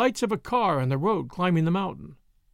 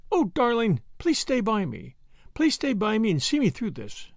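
woman's pleading voice, pitched up; Brett, pleading; 5 semitones higher than usual. Acted. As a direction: beg a dear friend to stay, in a higher pitch. Voices Brett begging Jake.

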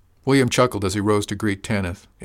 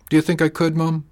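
a higher, hesitant plea from an uneasy daughter; 8 semitones higher, 5 dB louder than usual. A narrator's reading. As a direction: ask it nervously, unsure she can. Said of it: "Sadie looked uneasy".

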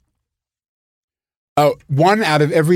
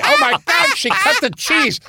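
mock shock; 3 dB louder than usual.

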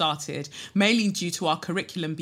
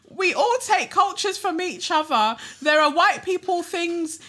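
much higher, prim mock voice of a white classmate; mocking white peer; 10 semitones higher, 3 dB louder than usual. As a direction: parody the preachy classmate, high and prissy. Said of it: "One of my white peers responded saying".

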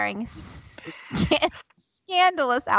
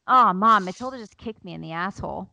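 casual. Retold or imitated. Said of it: "It says it so cash".

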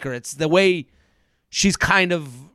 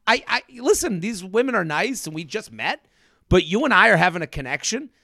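doubling down; 3 semitones higher than usual. Retold or imitated. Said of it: "she could have doubled down on".

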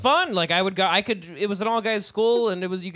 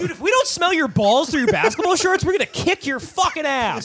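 mock tough-guy threat; 8 semitones higher, 4 dB louder than usual.

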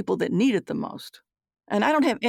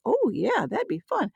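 put-on high, bright teen reply; eager teen daughter; 8 semitones higher than usual. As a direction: lift it up like a keen teenager.

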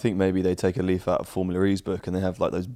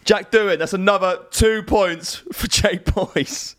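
hammed-up announcer; 9 semitones higher, slower than usual. Quizmaster hamming up scoring.

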